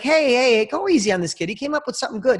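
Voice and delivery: mildly urgent retold protest; protesting intervention. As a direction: step in to defend the kid. Lawyer intervenes for the kid.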